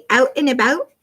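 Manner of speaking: "Out and about" in a Canadian accent; playful Canadian-accented "Out and about", questioning lift at the end. Shown as a demonstration. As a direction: put Canadian vowels on "Out and about". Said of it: "but say it with the Canadian accent".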